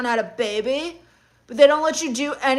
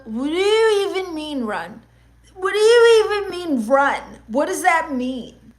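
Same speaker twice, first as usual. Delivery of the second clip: mock indignation; 4 semitones higher than usual. Mock-indignant retort to a chat comment.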